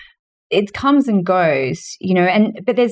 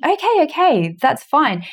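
resigned agreeing; 6 semitones higher than usual. Retold or imitated. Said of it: "I remember thinking".

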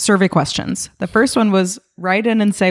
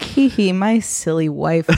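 smug laugh; slower than usual. Retold or imitated. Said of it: "smug little laughy".

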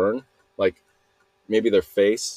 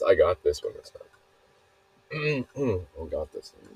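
catching breath; 4 dB quieter, slower than usual. Real, not acted. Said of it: "I need to catch my breath here".

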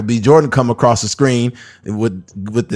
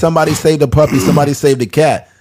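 news anchor; 3 semitones higher than usual. Retold or imitated. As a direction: announce it like the evening news. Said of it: "It's just like watching the news".

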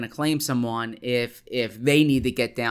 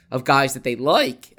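voice cracking; 5 dB louder than usual. Real, not acted. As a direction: voice cracks on the last word. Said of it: "my voice cracked there".

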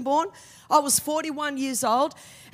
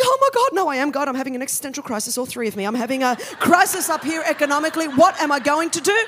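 God in crisis; 4 dB louder, faster than usual. Retold or imitated. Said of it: "I imagine God's in heaven".

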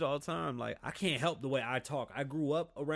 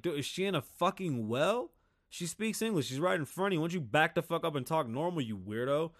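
raised-pitch indignant retort; mock telling-off, incredulous; acted exasperation; 4 semitones higher than usual. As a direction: tell them off in exasperation. Acted retort to slow talkers.

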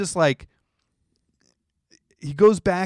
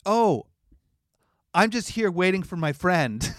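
mock innocent; 3 semitones higher than usual. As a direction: play innocent sweetly. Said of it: "she's just like".

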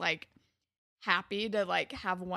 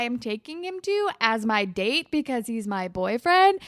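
smug mock quote; 3 semitones higher, 6 dB louder than usual. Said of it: "being like".

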